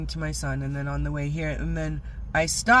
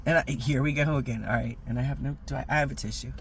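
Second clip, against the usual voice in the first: teary; 3 semitones lower, 3 dB quieter, faster than usual. Real, not acted. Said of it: "I can get this out without crying".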